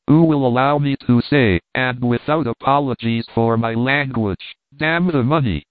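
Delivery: mild trembling anger, the pitch lifting a little on the curse; a touch of shaky outrage, held in check. Acted. Wilson defies the crowd in mild trembling anger. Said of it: "in a voice trembling with anger".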